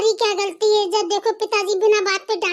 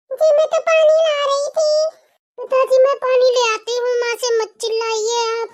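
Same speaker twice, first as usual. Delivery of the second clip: put-on higher, a little louder girl's voice answering her father; timid daughter; 3 semitones higher, 3 dB louder than usual. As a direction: play the young daughter defending her mother.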